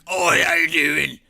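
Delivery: loud, cheery mock hello; overly chipper stream host hello; bright greeting. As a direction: greet the stream with a big fake smile. Fake cheerful greeting on livestream.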